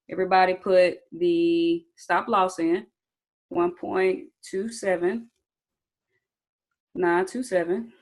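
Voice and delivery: catching breath between the numbers. Real, not acted. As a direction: still winded, slow breathless reading. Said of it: "Whew, I'm out of breath".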